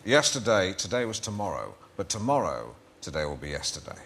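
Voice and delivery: lightly put-on pundit of wisdom; character voice. Life coach giving people his pearls of wisdom, lightly put-on character voice. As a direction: deliver it as a life coach's profound pearl, sinking at the end. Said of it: "you can't do it in your voice".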